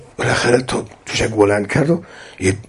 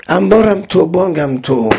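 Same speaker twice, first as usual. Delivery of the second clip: emphatic declaration; 7 semitones higher than usual. Acted. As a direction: ring out «انبارم تو» and «بانگم تو» with full force. Ammar's refrain, then repeated softly.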